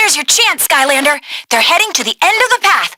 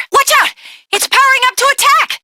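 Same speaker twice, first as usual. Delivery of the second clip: urgent warning; 8 semitones higher, faster than usual. Acted. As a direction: shout a warning as the boss charges. Boss powering up attack.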